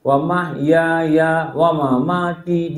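"mahyaya" bounced to a beat, slow; imitating the kindergarten sing-song; sing-song rhythm. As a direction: chant it to a nursery rhythm. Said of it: "dia ikut rhythm".

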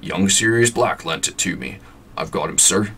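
lightly voiced gruff giant; a hint of big kindly Hagrid. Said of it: "You like my Hagrid voice?".

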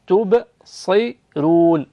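تبصرون with a light ر, drawn out; تبصرون, thin ر, slowly. Shown as a demonstration. Teacher modeling the light ر in تبصرون. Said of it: "الراء مرققة".

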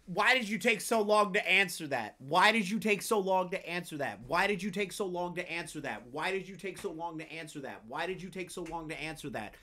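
fading repetition. Real, not acted. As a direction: repeat insistently, dying away to very soft. Same question repeated over and over, fading.

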